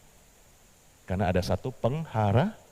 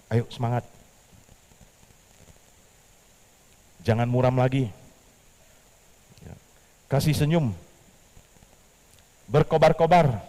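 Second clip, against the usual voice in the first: rousing encouragement; 4 semitones higher, 5 dB louder than usual. Shown as a demonstration. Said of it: "Bilang sebelahnya".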